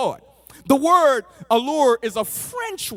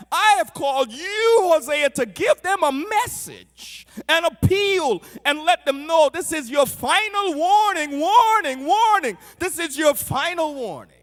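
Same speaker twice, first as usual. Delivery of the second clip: loud, higher-pitched prophetic proclamation; God's stern warning; 5 semitones higher, 3 dB louder than usual. Acted. God warns Hosea to deliver a last appeal, forceful proclamation. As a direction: proclaim it forcefully, hammering the repeated word.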